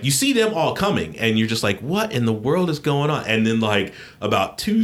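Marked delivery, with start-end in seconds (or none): 1.8-3.2 high-pitched, incredulous question; mock bewilderment. Boy seeing them all coming downhill, bewildered. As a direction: act out baffled disbelief in a raised pitch.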